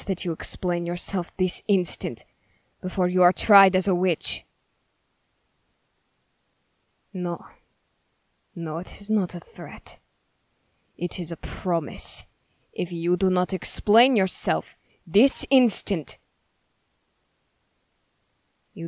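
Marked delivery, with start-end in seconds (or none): 2.8-4.4 louder, forceful accusation; stern threat. Acted. Interrogator threatens a suspected witch with trial, stern and forceful. 12.7-16.2 louder, insistent ultimatum; stern demand. Acted. Accuser orders a suspected witch to explain, stern and insistent.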